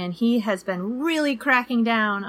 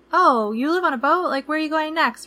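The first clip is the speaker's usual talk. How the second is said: higher, louder curious cab driver; taxi driver's voice; 8 semitones higher, 4 dB louder than usual. Retold or imitated. Cab driver asks where the couple is sailing next, voiced higher. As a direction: lift it up, friendly and curious. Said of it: "he said".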